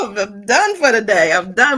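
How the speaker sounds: loud, hammed-up groaning about being done; lightly voiced food coma; mock exhausted. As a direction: play it like you're about to keel over. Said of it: "Family, I'm so full".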